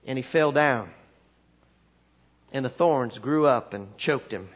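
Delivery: lightly voiced country preacher, long pauses between phrases; halting folksy Bible tale, pitch sinking; backwoods preacher storytelling. Country preacher telling the committee a story, measured backwoods voice. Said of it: "he starts to tell this story".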